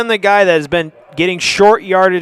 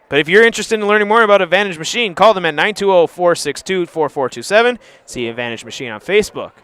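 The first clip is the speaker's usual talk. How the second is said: sponsor ad read; faster than usual. Acted. Commentator reading a sponsor ad between plays, ad-read voice. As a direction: read the sponsor spot smoothly.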